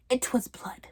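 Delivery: soft, dropped "It was blood"; quiet realization. Acted. Discovers blood, repeats it.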